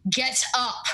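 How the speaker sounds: lightly voiced stern woman; terse wake-up command, mildly acted; curt woman's order. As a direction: give a firm order. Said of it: "a very curt woman's voice".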